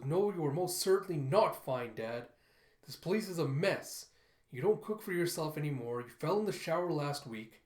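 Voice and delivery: mildly angry, emphatic rebuke; getting mad. Acted. Krupp Junior arguing with his dad, getting mad. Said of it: "Krupp Junior is getting mad".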